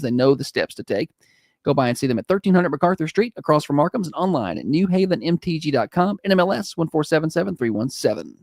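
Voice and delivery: warm radio ad read; warm announcer. Acted. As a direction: sell it like a friendly DJ. Host reads live ad.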